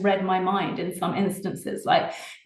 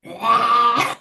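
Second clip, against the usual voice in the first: short playful gremlin noise, a little louder; 3 semitones higher, 4 dB louder than usual. Acted. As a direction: toss off a quick gremlin noise on request. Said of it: "Can you do a gremlin sound for us?".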